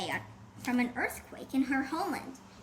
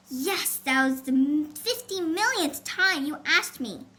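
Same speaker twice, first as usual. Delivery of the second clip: snapping; 4 dB louder than usual. Acted. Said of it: "Carmen snapped".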